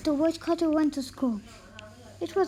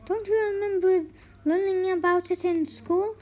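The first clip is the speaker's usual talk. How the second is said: higher, mock-innocent question; teasing; 3 semitones higher than usual. Wife teases her husband about school, higher. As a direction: needle him sweetly.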